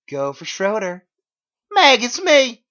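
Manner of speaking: phone call voices. Acted.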